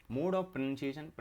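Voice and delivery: each word drawn out slowly for notes; slow dictation. Shown as a demonstration. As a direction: read it slowly so students can write it down. Teacher dictating syllabus term.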